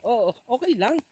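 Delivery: breathless, high and loud on the run; while running. Real, not acted. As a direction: call out while dashing through rain. Running through rain, laughing.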